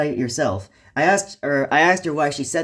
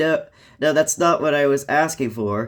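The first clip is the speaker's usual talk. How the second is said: ordinary talk, nothing marked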